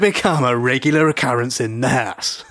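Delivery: put-on a light Australian accent, as the Speaker; lightly put-on Australian accent for a parliamentary warning. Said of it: "this is my Australian accent".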